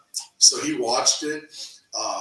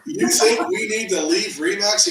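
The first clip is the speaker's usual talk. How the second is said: startled; 9 semitones higher, 4 dB louder than usual. Retold or imitated. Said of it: "I said".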